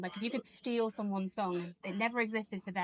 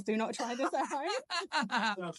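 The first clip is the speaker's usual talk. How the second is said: slow, announcer-style warning; mock safety disclaimer; much slower than usual. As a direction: read it like a product warning. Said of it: "I'm gonna put disclaimers".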